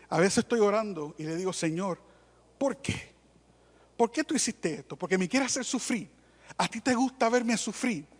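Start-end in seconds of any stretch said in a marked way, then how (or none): 1.5-8.1 oración quejosa. Retold or imitated. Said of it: "No le hables así a Dios".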